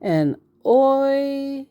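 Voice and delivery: a careful, uncertain go at "oibo"; attempting a tricky word. Shown as a demonstration. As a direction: sound out "oibo" slowly, unsure of the vowels. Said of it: "I always say this word wrong too".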